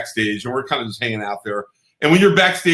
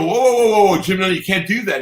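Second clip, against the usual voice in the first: alarmed protest; 5 semitones higher than usual. Retold or imitated. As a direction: act out halting someone in a hurry. Retells stopping Jim undressing him.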